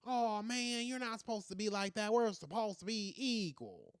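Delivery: drawn-out mock protest; mock indignation. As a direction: complain in long, dragged-out words. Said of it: "they're gonna act mad".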